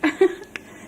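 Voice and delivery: a short high laugh. Real, not acted. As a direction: burst out laughing. Laughs at people's habit.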